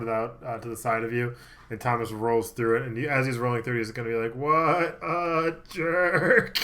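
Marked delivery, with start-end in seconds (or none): 4.3-6.6 annoyed mutter. Acted. DM voices Thomas annoyed.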